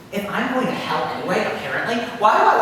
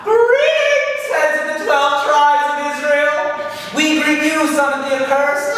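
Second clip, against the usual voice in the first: high, loud, ringing demon voice; booming Satan; 9 semitones higher, 6 dB louder, slower than usual. Retold or imitated. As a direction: boom out a grand devilish greeting. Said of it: "his voice just rings out".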